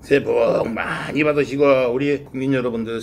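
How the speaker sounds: bow and wish it warmly; formal greeting. Real, not acted. Formal new year bow.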